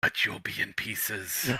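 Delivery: creepy, eerie whisper. Narrator voices something whispering back to a cleric's blessing: eerie whisper. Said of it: "As it whispers back".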